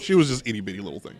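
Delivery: quick, laughing through the words; amused at how tiny she was. Real, not acted. Laughing about tiny girlfriend.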